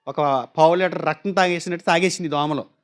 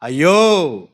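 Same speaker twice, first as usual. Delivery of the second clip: low, louder, drawn-out అయ్యో; అయ్యో as a cry of anguish; anguished ayyo; 4 semitones lower, 4 dB louder, much slower than usual. Shown as a demonstration. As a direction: moan అయ్యో in deep distress. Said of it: "అయ్యో కాదు, అయ్యో".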